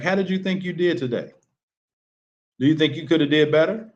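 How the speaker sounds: calm, curious question to the athlete; open question. Shown as a demonstration. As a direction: ask gently, no judgment.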